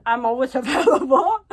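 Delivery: light chuckle through the line; laughing at herself. Real, not acted. Vlogger joking to viewers about always being free, laughing. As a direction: laugh it off as you say it.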